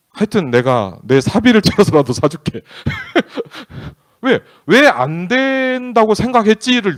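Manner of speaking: loud, slow, laughing promise. Real, not acted. Dad promising to pay for chicken himself, laughing. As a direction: break into laughter while promising.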